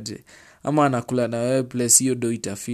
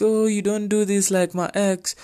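mocking whiny partner; 7 semitones higher than usual. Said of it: "they'll be like".

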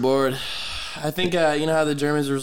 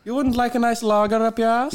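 sultry, high and louder; seductive voice; 10 semitones higher, 5 dB louder than usual. Acted. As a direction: tempt them with a silky pitch. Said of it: "In a seductive voice like that".

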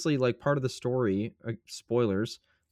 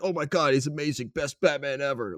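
mock gushing; 4 semitones higher than usual. Mimics fans gushing after the release.

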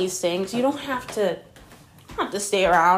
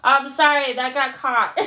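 laughing; 5 semitones higher, 3 dB louder than usual. Real, not acted. Laughing after the mishap.

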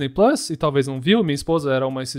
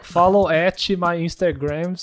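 English words in a mock American accent; slow, hammed-up American accent; much slower than usual. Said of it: "Mas fala do jeito americano".

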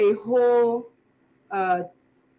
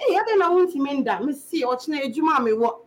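higher-pitched chatter, as to someone present; acted conversation; 4 semitones higher than usual. Talking to oneself in bed when sleepless, acted conversation. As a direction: play the other half of a made-up chat. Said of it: "put up a conversation like this".

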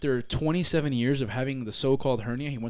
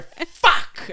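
imitating grandpa; 7 dB louder than usual. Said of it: "I hear".

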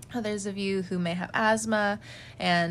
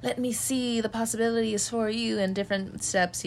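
excited; 2 semitones higher, 3 dB louder than usual. Retold or imitated. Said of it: "I'm just like".

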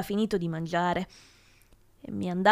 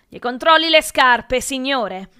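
raised voice, easing at the end; eager urging; 3 semitones higher, 8 dB louder than usual. A narrator's reading. Brett advising the professor where to search, eagerly urging. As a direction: push another suggestion on the teacher.

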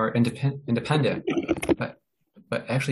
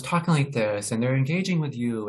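rising and falling, engaged melody; lively up-and-down tone; 3 semitones higher than usual. Shown as a demonstration. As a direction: make "talking like this" swing up and down. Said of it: "the tone that's not monotone, it's that up and down".

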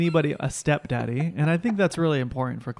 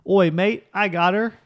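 higher, loud Australian "mate" voice; mock Australian accent; 4 semitones higher, 4 dB louder, slower than usual. Playing Mark Wahlberg stepping in to spot her, mock Australian accent. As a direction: do a bad Australian accent, jumping in to help. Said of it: "Why does he have an accent now?".

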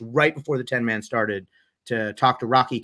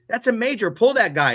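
mild mock yell; 9 semitones higher, 3 dB louder than usual. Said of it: "started screaming at him going".

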